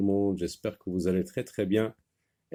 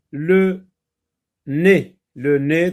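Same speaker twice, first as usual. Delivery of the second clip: loud word; 7 semitones higher, 9 dB louder, slower than usual. Shown as a demonstration. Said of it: "donc E Z".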